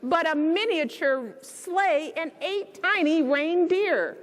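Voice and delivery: gentle read-aloud storytelling; bedtime story reading. A narrator's reading. Reading The Night Before Christmas aloud to children, storybook voice.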